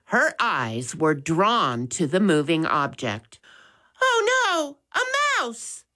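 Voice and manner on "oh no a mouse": high shriek of fright at a mouse; a startled lady shrieking in panic; much higher terrified cry; frightened scream. A narrator's reading. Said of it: "Missus Baker screamed".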